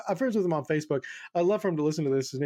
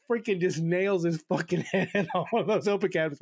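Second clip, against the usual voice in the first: laughing while telling; 2 semitones higher than usual. Real, not acted.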